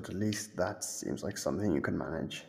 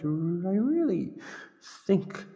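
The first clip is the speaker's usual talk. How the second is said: high drawn-out emphasis; 8 semitones higher, 3 dB louder, slower than usual. Acted. Playful emphasis in game.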